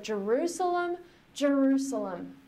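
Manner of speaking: high, aching cry of the name; mournful lament. Retold or imitated. Jesus groaning his lament over Jerusalem. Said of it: "with all of the gravel in his voice".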